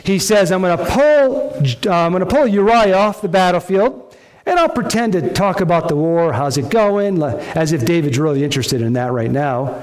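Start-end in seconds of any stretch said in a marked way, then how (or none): 0.5-7.2 scheming David voice. Acted. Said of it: "here is David's great cover-up plan".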